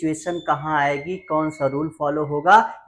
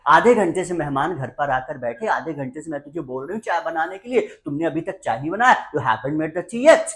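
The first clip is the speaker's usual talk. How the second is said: quick, mildly exasperated nagging; scolding mother; 2 semitones higher than usual. Acted. Mother to son after half an hour's wait, nagging. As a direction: rattle off a mom's impatient complaint. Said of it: "So mummy ने कहा".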